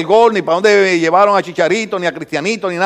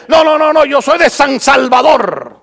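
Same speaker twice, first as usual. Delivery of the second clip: mock proud denial; 3 semitones higher than usual. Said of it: "todo el mundo es de la ciudad".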